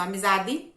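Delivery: amizade said amizadi, the last e as i; listen and say amizade ending in i; final e as i. Shown as a demonstration. Teacher asking pupils to listen: amizade ending in i. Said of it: "Preste atenção".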